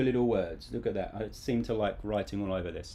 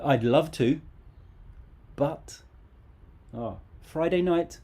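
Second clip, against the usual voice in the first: woman making excuses; 4 semitones higher, 3 dB louder than usual. Acted. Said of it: "She might say".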